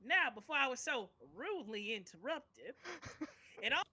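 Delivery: cranky grandpa voice, mildly voiced; old prospector. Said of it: "Stop that voice".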